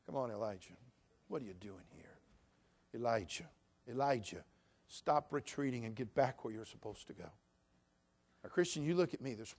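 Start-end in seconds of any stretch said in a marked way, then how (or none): 0.1-7.3 soft, low, coaxing; quiet pleading voice; gentle call. Acted. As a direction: murmur it tenderly. Soft voice of God.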